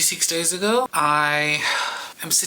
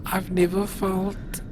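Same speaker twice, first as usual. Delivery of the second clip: crying quietly; 4 dB quieter than usual. Real, not acted. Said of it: "can't stop crying".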